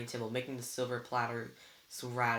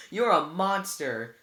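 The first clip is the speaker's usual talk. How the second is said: louder, slowly spat out; slow bitter condemnation; 4 semitones higher, 8 dB louder, slower than usual. A narrator's reading. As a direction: lay each word down with contempt. Annabeth condemning Luke.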